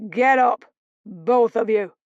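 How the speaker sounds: loud, harsh command; barked order. Acted. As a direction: bark it at the captives. Brothers burst in, ordering.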